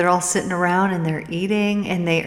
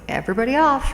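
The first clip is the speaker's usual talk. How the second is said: conductor calling everyone off the train, pitched higher; 7 semitones higher, faster than usual. Acted. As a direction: call out to the whole car, a touch raised. Conductor calls out at the stop.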